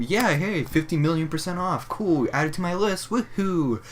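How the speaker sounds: high, chirpy put-on delight; mock excited shopper. Cashier acting out the ideal Target shopper finding a deal, mock-excited. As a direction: play an over-keen bargain hunter.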